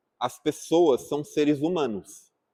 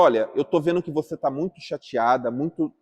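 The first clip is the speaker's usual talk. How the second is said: calm empathetic reply. Shown as a demonstration. Teacher models calming an upset woman, calm and understanding. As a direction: soothe an upset person before explaining. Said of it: "primeiro eu falo".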